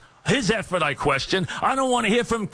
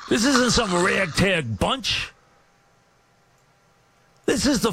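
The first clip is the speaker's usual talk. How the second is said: angry shout; 2 semitones higher than usual. Real, not acted. Radio host tirade.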